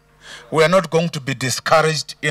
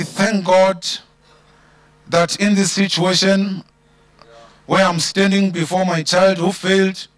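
sincere prayer. Pretend. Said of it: "But you can say".

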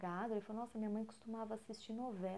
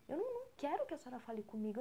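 angry son; 5 semitones higher, much faster than usual. Acted. Son scolds mother for greeting him.

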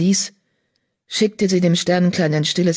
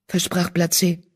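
plain reading voice

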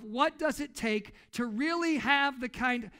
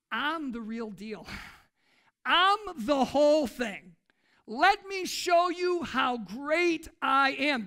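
louder, slow swaggering boast; a lightly voiced arrogant tyrant bragging; boastful king; 5 dB louder, slower than usual. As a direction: gloat like a proud king.

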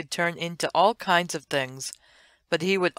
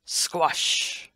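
whispered sound effect. Acted. Elephant falls from tree.

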